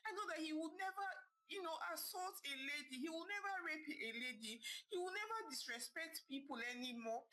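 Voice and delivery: high, tearful begging mother; pleading and crying. Acted. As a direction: plead for her son, close to tears. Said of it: "pleading and crying".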